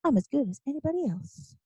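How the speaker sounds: high, brash declaration to the world; in-your-face defiance. Acted. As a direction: throw it in their face, pitched high. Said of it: "They're like, "In your face".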